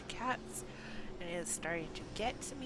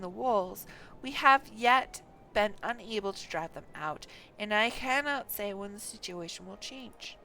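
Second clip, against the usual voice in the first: louder, grave commander reading his report; stern lord voice; 10 dB louder than usual. Acted. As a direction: speak as a lord explaining a grim situation. Game NPC dialogue read aloud.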